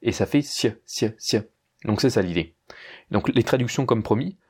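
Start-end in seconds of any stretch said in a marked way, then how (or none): 0.4-1.4 "si" as sy with a very short vowel; soft s and tiny glide on "si"; cieux without eu. Shown as a demonstration. Teacher derives the sound from les cieux, soft s. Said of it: "tu enlevais le E".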